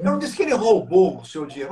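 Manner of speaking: "roubou" stretched and stressed. Shown as a demonstration. Coach demo to viewers, stress on "roubou". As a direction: lean on "roubou". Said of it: "se ele não roubou".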